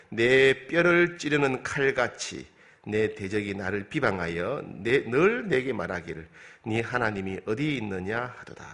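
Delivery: slow, weighty reading of the verse, leaning on 뼈를; slow scripture reading. Shown as a demonstration. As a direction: read the psalm line slowly, giving 뼈를 the weight. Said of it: "십 절은". (천천히 무게 있게 성경 봉독)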